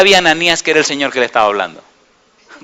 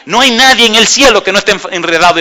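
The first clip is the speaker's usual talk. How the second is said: fervent preaching; 5 semitones higher, 3 dB louder than usual. Real, not acted.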